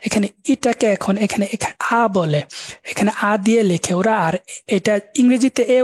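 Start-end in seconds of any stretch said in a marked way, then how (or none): 1.9-2.1 আ said as an open German a, not English e; German a sound. Shown as a demonstration. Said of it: "Deutsche এটাকে আ উচ্চারণ করে".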